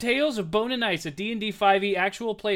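podcast host announcer voice; welcoming announcer read; announcer intro. Acted.

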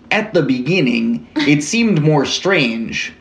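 slow, hammed-up Canadian voice with a laugh in it; mock Canadian drawl of a cafe owner; bad Canadian accent. Host quotes a local cafe owner, in a bad Canadian accent. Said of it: "Canadian accent".

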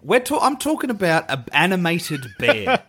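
slow, giggling through it; laughing at himself. Real, not acted. Podcaster admitting he cries over a bear, laughing. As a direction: laugh at your own softness.

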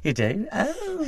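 high sing-song Irish lilt; a high Irish "oh", mock surprise; high-pitched Irish accent. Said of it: "It was pitched".

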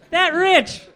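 high, loud mock snooty quip; snooty sarcastic. Shown as a demonstration. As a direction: toss it off like a smug critic. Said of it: "if everybody could go".

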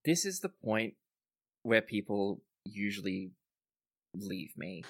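slow, halting admission after a sigh; sighing confession. Acted. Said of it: "He sighs and he says".

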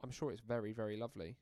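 condescending "very, very lovely"; patronising. Real, not acted. Brushing off the co-host's translation, patronising. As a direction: pat them on the head with it. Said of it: "said in a really patronising tone".

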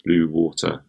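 "blue water" as two separate words; careful proper pronunciation. Shown as a demonstration. Co-host prescribing jaw rehabilitation, careful "blue water". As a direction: set out "blue water" deliberately, W clear. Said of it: "if you ever want to pronounce the words".

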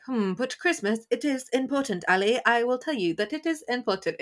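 flat robotic angel voice. Retold or imitated. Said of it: "in his silly little robot voice".

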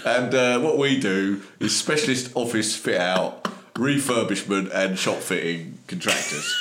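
put-on slow, lightly done Cockney accent; careful, mild Cockney accent. Delivery man explaining the business, slow mild Cockney accent. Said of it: "I'm doing that".

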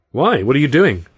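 sharp startled question; surprised. Acted. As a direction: blurt it out, alarmed.

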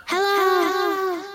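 shouting into echo. Real, not acted. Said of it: "Have a go, Skylar".

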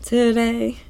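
very high, lilting put-on voice; valley-girl Pearl. Pearl running off with friends, very high and lilting. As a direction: sing it out like a teen.

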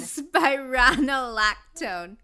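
very slow spironolactone, big RON; stress on RON. Shown as a demonstration. Reader following co-host's coaching, drawn-out RON in spironolactone. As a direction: draw out spironolactone as spy-RON-oh-lactone.

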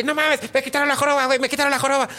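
high, thrilled retelling; excited news. Retold or imitated. Hunchback back at the cantina, high and excited. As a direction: burst in bragging about it.

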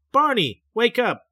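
trying to rouse him, urgent; urgent calling. A narrator's reading. Betty calling her sleepwalking husband Barney, urgent call.

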